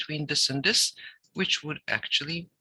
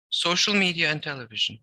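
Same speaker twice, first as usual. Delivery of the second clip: raised voice. Shown as a demonstration. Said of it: "Look, I raised my voice".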